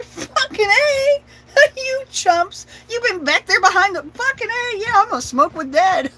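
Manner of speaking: high, loud, cackling through the words; laughing gloat. Retold or imitated. Little girl laughing at her siblings about smoking with Dad.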